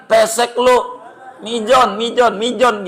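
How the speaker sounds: high-pitched teasing jeer; playful name-calling, pitched high; mock taunt. Acting someone insulting the man's nose.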